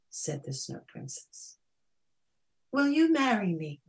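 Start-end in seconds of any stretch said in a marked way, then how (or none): 2.7-3.8 high, earnest question; pleading proposal. A narrator's reading. Melting Snow Princess proposing to Prince Jack, pleading. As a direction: ask it high and imploring.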